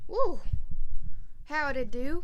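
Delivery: loud high whoop of excitement; excited cheer. Real, not acted. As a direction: burst in cheering at full voice. Loud cheer on returning to camera.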